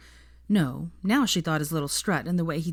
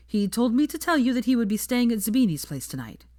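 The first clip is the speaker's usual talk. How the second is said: sheepish; 6 semitones higher than usual. A narrator's reading. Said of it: "Harry said sheepishly".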